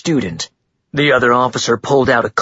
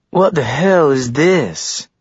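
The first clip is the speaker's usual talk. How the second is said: angry demand; 4 semitones higher, slower than usual. Acted. Frat guy confronts them angrily.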